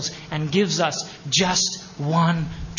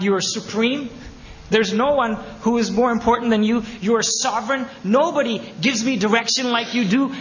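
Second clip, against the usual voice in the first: raised, louder voice of devotion; fervent declaration; 5 semitones higher, 3 dB louder than usual. Acted. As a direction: pour out praise to the Lord with rising force. Voicing a believer's fervent declaration.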